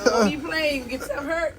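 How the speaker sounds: scolding through laughter; laughing. Real, not acted. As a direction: laugh while warning him off. Woman laughing while scolding.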